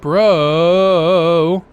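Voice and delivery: loud indignant shout; loud protest. Acted. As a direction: yell it in protest. Character protesting loudly.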